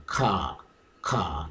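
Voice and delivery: "Ka" with an open "ah", falling. Shown as a demonstration. Teacher isolating the British sound, open falling "ka". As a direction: say "Ka" alone with a long open vowel. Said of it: "pronounced as the sound ka".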